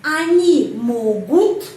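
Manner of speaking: slow and loud, ending ut held out; teacher stressing the verb ending. Shown as a demonstration. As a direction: lean on the ending of могут. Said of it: "kata kerja diakhiri dengan ut".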